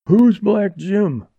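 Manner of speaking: high, slow contemptuous snarl; drawn-out scornful challenge. A narrator's reading. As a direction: snarl it slowly, starting high. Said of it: "snarled Porky Martin".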